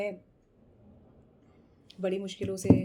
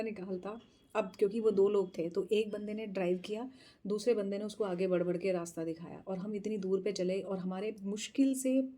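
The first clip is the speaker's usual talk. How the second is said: ordinary delivery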